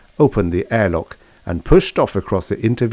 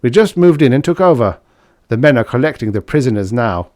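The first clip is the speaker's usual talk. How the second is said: strained voice; 4 semitones higher, 5 dB louder than usual. Acted. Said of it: "His voice was oddly strained".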